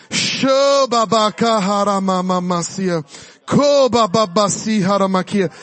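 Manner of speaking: low, murmured tongues, slowing at the end; speaking in tongues. Acted. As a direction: pray in tongues under the breath. Praying in tongues.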